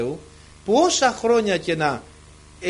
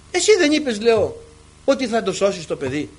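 raised re-enacted plea, easing off; pleading protest; 3 semitones higher, 4 dB louder than usual. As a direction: challenge God over a promise. Reproachful plea to God, retold.

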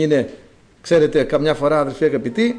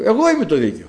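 arrogant ruler; 4 semitones higher, faster than usual. Retold or imitated. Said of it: "Ποιο λέει διεθνές δίκαιο".

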